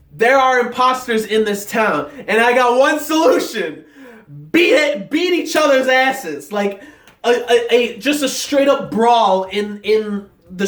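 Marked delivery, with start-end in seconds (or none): 0.1-6.5 mock rallying speech. Leader rallying the town against imposters, mock proclamation. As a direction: build to a punchy call to brawl. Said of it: "He's like".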